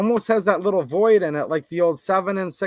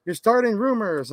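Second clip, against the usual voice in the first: higher-pitched whiny imitation of a scolding; mock complaining commenter; 5 semitones higher than usual. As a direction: mimic an indignant accuser. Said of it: "And they're like".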